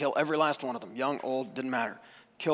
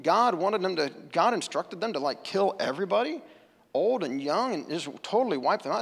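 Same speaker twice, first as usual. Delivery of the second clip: imitated outrage; 3 semitones higher than usual. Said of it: "make you wanna push the Bible away and say".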